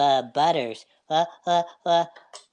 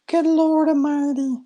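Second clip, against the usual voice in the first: much higher squeaky exclaim; high helium Good Lord Almighty; 9 semitones higher, 3 dB louder than usual. Real, not acted. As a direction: gasp it with a balloon-high voice.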